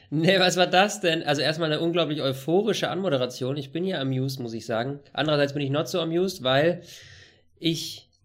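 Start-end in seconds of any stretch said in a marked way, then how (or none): 3.6-8.1 sick, stuffed-up cold voice; talking through a head cold; man flu. Real, not acted. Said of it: "Ich weiß, es ist Männerschnupfenzeit".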